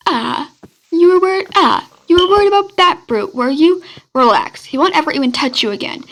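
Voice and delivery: assuring. Acted. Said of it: "Wilbur assures".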